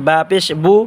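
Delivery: বু from the moist part of the lips; wet-lip ba. Shown as a demonstration. Teacher showing viewers the letter, wet-lip বু. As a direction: press the inner lips for বু. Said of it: "ঠোঁটের ভিজা অংশ থেকে".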